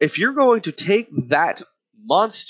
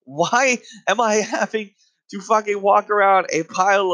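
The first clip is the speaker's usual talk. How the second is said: exasperated rant, a bit higher; mock screaming; 4 semitones higher than usual. Ranter confronting parents over their monster child, mock screaming. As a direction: imitate berating a parent, short of screaming. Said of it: "I just wanna start screaming at their children".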